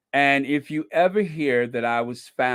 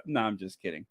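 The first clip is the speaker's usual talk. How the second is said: quick retraction; 6 semitones lower, 8 dB quieter, faster than usual. Real, not acted. Backing off a joke.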